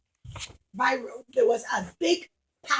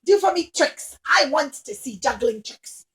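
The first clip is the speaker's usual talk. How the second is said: bossy princess; 5 dB louder than usual. Acted. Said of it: "And she said".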